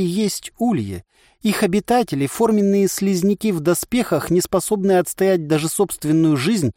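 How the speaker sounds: high, bright-paced commercial pitch; ad read. Acted. The voice in his head reads the pollen ad, pompous ad read. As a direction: sell it like a radio advert.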